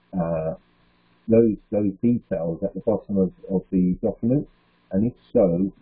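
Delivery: muffled, too close to mic; muffled like a hand over mouth. Real, not acted. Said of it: "it sounded very muffled when you were talking".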